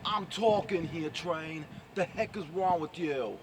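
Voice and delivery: attempted New York accent. Vlogger testing accent on Train, faux New York. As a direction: scold in a shaky stab at Bronx. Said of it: "I keep sounding British for some reason".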